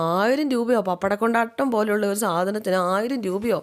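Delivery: acted disbelief at the price; mildly hammed-up shock. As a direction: balk at the bill, pitch lifted at first. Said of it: "bill കണ്ടു ഞെട്ടി".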